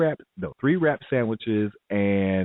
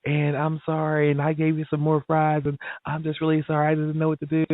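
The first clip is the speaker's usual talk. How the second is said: apologetic flustered manager; 7 semitones higher than usual. Retold or imitated. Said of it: "He's like".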